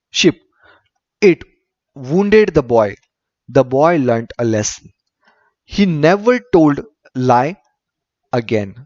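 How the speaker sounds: slow, deliberate English story reading; story read-aloud. A narrator's reading. Teacher reading a story to pupils, measured read-aloud. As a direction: read it out sentence by sentence with pauses.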